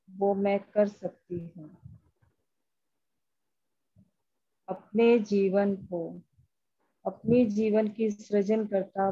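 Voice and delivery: measured meditation voice, phrase by phrase; guided affirmation. Acted. Leading a group through EFT tapping, measured guided affirmation. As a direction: recite affirmations with pauses for others to follow.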